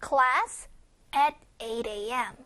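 "Class" lifted at the end, a break, then low, slow "at eight A M"; pause after Class. Shown as a demonstration. Teacher showing where to rest after class, deliberate pause. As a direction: hold a clear pause between "Class" and "at eight A M". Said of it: "class 하고 한번 쉴 겁니다".

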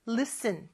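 listen said as lis-en, T silent; listen T를 묵음으로. Shown as a demonstration. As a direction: drop the T in listen. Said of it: "T 발음이, 어, 발음이 안 나요".

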